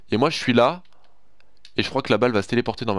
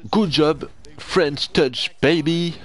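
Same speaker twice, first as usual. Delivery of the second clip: gleeful brag; 5 semitones higher, much slower than usual. Real, not acted. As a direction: celebrate the pick. Bragging about the interception again.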